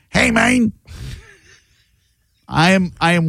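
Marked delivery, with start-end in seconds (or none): 0.1-0.7 lightly voiced "Hey, man" in a mock South American accent; breezy mock South American accent, not quite Portuguese. Host shows callers the South American accent, mock South American accent. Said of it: "People associate the South American accent like a".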